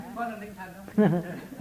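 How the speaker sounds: short chuckle; laugh. Real, not acted. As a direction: chuckle briefly before answering. Bật cười khi được hỏi. (cười khẽ)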